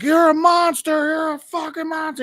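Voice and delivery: high-pitched panicked accusation; mock freak-out. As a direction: act out a terrified man, pitch jumping way up. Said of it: "the guy freaks out".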